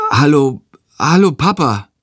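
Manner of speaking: dumbfounded. A narrator's reading. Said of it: "sagt er verdattert".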